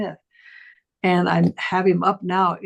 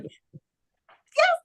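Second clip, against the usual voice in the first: very high, gushing praise; delighted praise; much slower than usual. Retold or imitated. Teacher gushing to her student, delighted and high. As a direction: gush with delight.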